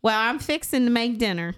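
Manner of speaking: lightly put-on Southern twang on "fixin'"; Southern accent impression. Shown as a demonstration. Showing friends how Marissa says fixin', lightly put-on Southern accent. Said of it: "it goes like this. I learned this from her".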